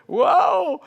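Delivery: mock whoa. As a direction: wobble as the waves hit. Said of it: "you know".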